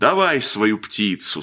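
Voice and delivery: plain reading voice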